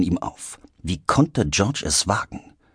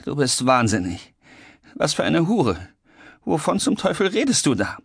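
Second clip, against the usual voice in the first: indignant disbelief; 7 semitones higher than usual. Acted. Heated quarrel, Heinrich bewildered.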